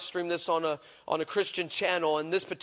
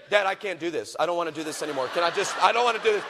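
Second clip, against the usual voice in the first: small, lower voice backing out; nervous daughter; 3 semitones lower, faster than usual. Retold or imitated. Daughter telling her dad she can't do it, small and scared.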